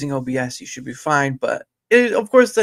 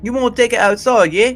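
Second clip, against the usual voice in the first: teasing call-out; 9 semitones higher, 8 dB louder than usual. Real, not acted. Teasing a chat joke.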